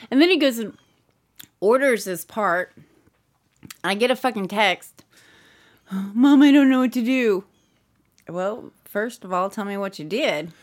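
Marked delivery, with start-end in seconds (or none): 5.9-7.4 a light take on a helpless son's voice; imitating Kyle. Mother retelling her son's text, mild helpless son impression. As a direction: lightly mimic the lost teenage son. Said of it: "Mom is doing a perfect impersonation of Kyle".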